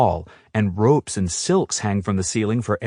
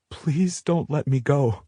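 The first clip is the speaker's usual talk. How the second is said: pleading; 6 semitones higher, 3 dB quieter than usual. A narrator's reading. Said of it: "I plead".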